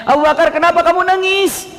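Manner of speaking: high, impassioned question; urgent questioning. Acted. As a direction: ask a weeping friend urgently. Prophet questioning weeping companion.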